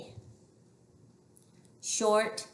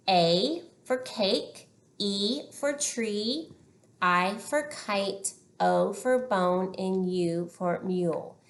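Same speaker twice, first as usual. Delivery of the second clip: slow vowel drill. Shown as a demonstration. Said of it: "we also have our long vowel sounds".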